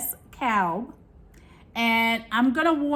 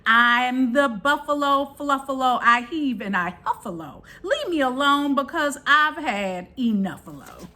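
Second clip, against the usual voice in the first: snarling buffalo; 3 semitones higher than usual. Acted. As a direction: grumble the refrain like a cranky buffalo. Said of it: "snarled and he snuffaloed".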